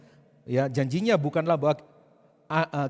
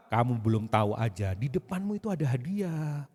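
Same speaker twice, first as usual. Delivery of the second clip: sarcastic; 4 semitones lower than usual. Pretend. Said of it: "Itu sangat sarkastik".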